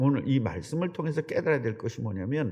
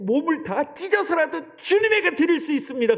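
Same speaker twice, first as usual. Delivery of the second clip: fervent vow; 12 semitones higher, 3 dB louder than usual. Retold or imitated. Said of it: "은혜 받고".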